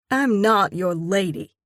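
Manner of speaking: a short sharp comeback; sling it back at him; curt retort. Acted. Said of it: "I sling back".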